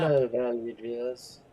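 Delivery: teasing British host imitation; Cap impression, British accent. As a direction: mimic a British YouTuber, drawn out. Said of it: "you should talk in a British accent".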